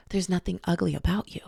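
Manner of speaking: soft hushed line in her ear; a whisper from the hero to the heroine. Retold or imitated. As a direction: breathe it close to her ear. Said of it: "he whispers in her ear".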